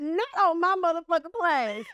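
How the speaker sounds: hammed-up panic, loud and high; outraged. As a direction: squeal it in horrified disbelief. Spotting the nun on her plane.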